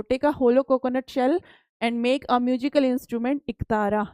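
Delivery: reads each English word out slowly and carefully; slow textbook reading. Acted. Teacher reading the textbook aloud to pupils, slow and deliberate. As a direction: spell out the book line for the class.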